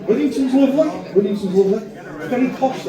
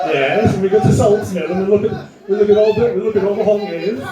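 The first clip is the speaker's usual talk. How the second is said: posh Shipley resident; 2 semitones higher, 3 dB louder than usual. Acted. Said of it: "Shipley pretends to be posh".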